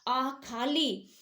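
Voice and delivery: आ खाली drawn out slowly; slow demo. Shown as a demonstration. Teacher naming the visarga form for students, slowly. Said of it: "जिसको पढ़ते हैं आम तौर पर".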